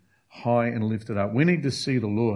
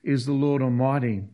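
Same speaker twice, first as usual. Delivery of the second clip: mock shout. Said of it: "they shout out".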